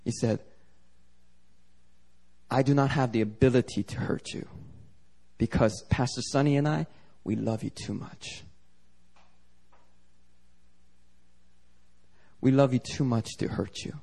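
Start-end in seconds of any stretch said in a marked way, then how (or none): 2.5-14.0 gentle reassurance. Retold or imitated. Pastor reassuring the crying sister.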